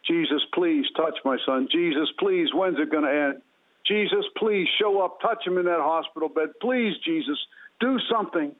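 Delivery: mildly urgent retold plea to Jesus; imitated pleading cry. Mother begging Jesus for her injured son, pleading. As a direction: plead earnestly, as his mother did, without shouting. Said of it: "I was just crying out to God".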